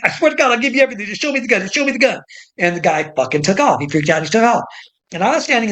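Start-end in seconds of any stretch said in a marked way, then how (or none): 0.0-2.2 mock pleading. Clerk mock pleading to robber.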